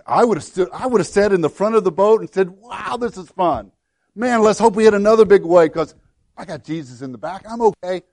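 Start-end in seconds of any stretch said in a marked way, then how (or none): 2.5-8.0 cocky bravado. Retold or imitated. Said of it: "kind of the attitude I have".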